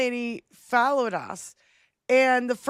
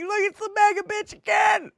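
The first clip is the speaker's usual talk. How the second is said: mocking call-out; 9 semitones higher than usual. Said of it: "I'm like".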